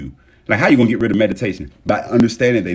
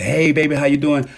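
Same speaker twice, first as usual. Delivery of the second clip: higher, sweet-talking hello; cheerful greeting; 5 semitones higher than usual. Acted. Coming home to a significant other, cheerful greeting. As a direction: greet your partner lightly, pitched up. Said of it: "where you normally say".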